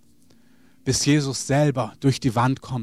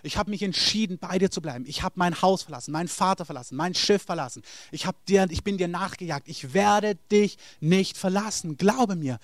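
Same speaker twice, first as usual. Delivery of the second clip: Peter's vow; 4 semitones higher than usual. Acted. Peter swearing to Jesus he will never leave. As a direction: plead your loyalty like a devoted disciple. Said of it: "du kannst dir vorstellen, wie Petrus sagt".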